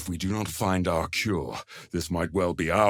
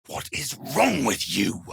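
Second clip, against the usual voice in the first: angry shout; 4 semitones higher than usual. Acted. Companion yells in urgency.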